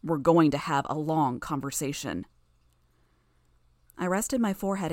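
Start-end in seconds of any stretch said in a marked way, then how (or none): 0.0-2.2 low and menacing. Acted. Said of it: "his tone low and menacing".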